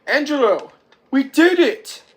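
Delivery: high, loud victory cry; triumphant shout. Retold or imitated. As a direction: holler it to your brother in triumph. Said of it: "Tito says something at the camera".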